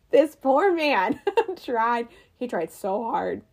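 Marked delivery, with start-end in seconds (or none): 0.1-2.1 pitying through laughter; laughing. Real, not acted. Host amused by actor's failed Boston accent, laughing. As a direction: laugh while feeling for the poor man.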